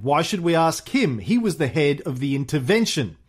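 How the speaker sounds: theatrical, measured memoir narration; lively recital with swelling stresses; memoir reading. A narrator's reading. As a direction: read it like a grand storyteller. Reads Churchill's memoir aloud.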